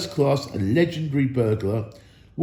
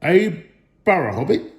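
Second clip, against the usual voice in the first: startled trolls; 5 semitones higher, 4 dB louder than usual. A narrator's reading. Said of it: "a bit startled".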